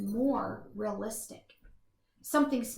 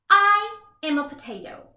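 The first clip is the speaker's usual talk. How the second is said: proud announcement; 8 semitones higher, 8 dB louder than usual. Acted. Potato proudly introduces himself.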